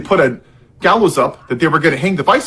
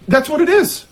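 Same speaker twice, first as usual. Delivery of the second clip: sarcastic aside; 10 semitones higher than usual. Pretend.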